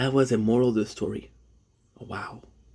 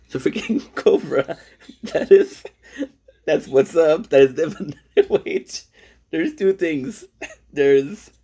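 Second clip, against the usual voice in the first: a light take on a creator's hyped voice, higher and louder; imitating Cobra; 5 semitones higher, 5 dB louder, slower than usual. Vlogger slipping into a creator's way of talking, lightly imitated. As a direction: talk like the streamer you binge. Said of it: "you start to talk like them".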